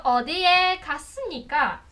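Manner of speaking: "O, di, e, kasnika" climbing on each syllable, slow at the end; walk the pitch up the syllables; rising syllables. Shown as a demonstration. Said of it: "vai subindo".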